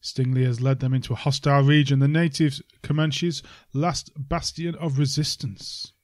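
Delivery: dramatic trailer narrator read; movie trailer voice. Shown as a demonstration. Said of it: "I'll do it in my best movie voice".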